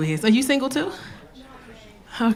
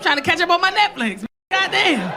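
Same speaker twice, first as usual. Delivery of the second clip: annoyed mock complaint; 4 semitones higher than usual. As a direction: groan at the date, hammed-up. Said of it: "It's like".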